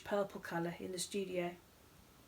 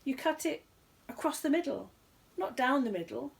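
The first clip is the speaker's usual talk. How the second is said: higher, rattled quiz host; a showman losing his footing; host correcting the bear, flustered; 6 semitones higher, 4 dB louder than usual. A narrator's reading. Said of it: "stuttered Ronnie Playfair".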